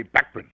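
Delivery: Bachman said as BACK-man with a flat a; English pronunciation. Shown as a demonstration. Telling how the English say his name, BACK-man. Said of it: "In England, they say".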